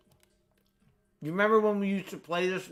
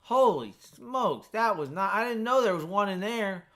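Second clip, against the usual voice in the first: shaken surprise; 6 semitones higher than usual. Real, not acted. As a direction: catch your breath after a fright. Reacting to surprise enemy.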